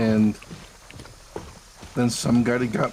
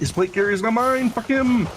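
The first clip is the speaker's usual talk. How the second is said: frustrated outburst; 10 semitones higher than usual. Real, not acted. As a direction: blurt it out in annoyance. Loot disappointment outburst.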